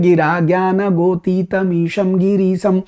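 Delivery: slow, measured chant of a Sanskrit hymn; hymn recitation. Shown as a demonstration. Teacher reciting the Shiva hymn to students, slow devotional chant. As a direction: intone each word of the prayer slowly. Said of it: "वो जो प्रार्थना शिव जी के लिए गाई जाती है".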